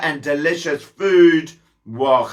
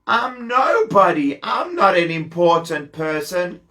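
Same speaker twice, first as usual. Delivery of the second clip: protesting Chazael; 4 semitones higher than usual. Acted.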